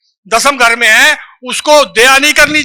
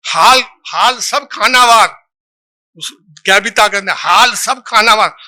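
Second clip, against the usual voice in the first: slow poem recital; slower than usual. Shown as a demonstration. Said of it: "मैं पूरी कविता नहीं पढ़ रहा हूं".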